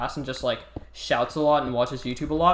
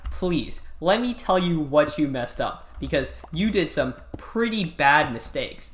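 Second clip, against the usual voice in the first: slow, lightly imitated talking-down; condescending teacher; slower than usual. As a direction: mimic a teacher spelling out a pupil's failings. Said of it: "talks to everybody really condescendingly".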